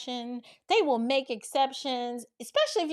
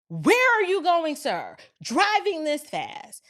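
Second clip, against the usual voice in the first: drawn-out mock officer demand; questioning officer; 3 semitones higher, slower than usual. Second cop to speeding driver, stern questioning. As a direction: imitate a cop pulling someone over.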